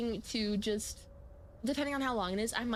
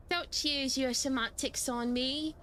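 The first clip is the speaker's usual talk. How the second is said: slow, put-on British voice; British accent; slower than usual. Character rebuking the player, in a slow British accent. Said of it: "this guy's gonna be British".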